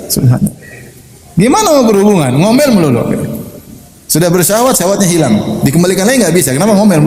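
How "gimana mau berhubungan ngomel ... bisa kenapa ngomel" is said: high-pitched exasperated griping; complaining husband. Retold or imitated. Husband explains his lost desire to the preacher, exasperated. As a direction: keep griping, voice raised in pitch. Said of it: "saya ini tempat banyak keluhan".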